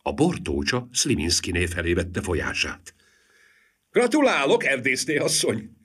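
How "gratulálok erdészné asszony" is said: high teasing congratulation. A narrator's reading. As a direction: needle her playfully.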